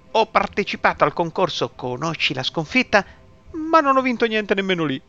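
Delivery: put-on drunken mumble. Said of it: "Poi biascicò".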